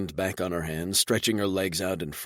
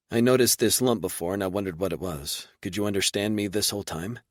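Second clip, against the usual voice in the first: light female character, curious; Reba, lightly voiced and quick; lightly voiced woman; 2 semitones higher, faster than usual. Reba, the human woman, speaking.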